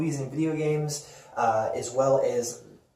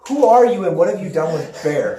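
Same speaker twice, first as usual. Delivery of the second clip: laughing tease; 3 semitones higher, 6 dB louder than usual. Real, not acted. Teasing a co-host's odd pick.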